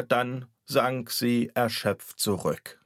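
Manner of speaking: ordinary delivery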